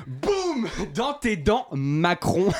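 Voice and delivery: high, loud victorious taunt; triumphant gloat. Acted. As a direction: crow it like you just won. Comic mocking punchline gloat.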